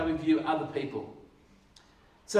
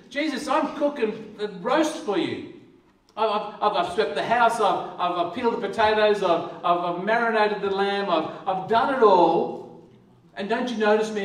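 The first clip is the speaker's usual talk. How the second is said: a touch louder, stammering, put-upon; Martha's mock complaint; 4 dB louder than usual. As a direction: list your chores like a hard done-by host.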